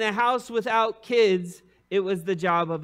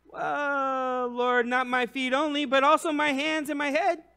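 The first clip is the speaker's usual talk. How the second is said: higher, eager overcorrecting plea; eager Peter; 7 semitones higher than usual. Retold or imitated. Peter eagerly asking Jesus to wash everything. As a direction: throw yourself all in. Simon eagerly asks for more.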